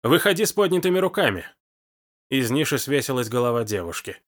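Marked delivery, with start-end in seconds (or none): 0.0-1.5 shouted order. A narrator's reading. Engar, gun drawn, shouting at the hidden stranger. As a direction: bark it at the luggage shelf. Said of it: "закричал".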